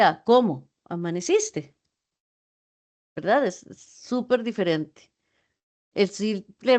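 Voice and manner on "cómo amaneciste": "¿Cómo amaneciste?" lower, falling, no warmth; curt flat-toned question; dry greeting. Shown as a demonstration. Teacher demonstrates a cold greeting to students. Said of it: "es muy diferente decir".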